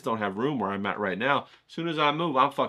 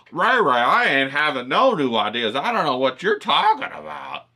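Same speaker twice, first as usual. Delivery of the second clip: mock complaining viewer; 6 dB louder than usual.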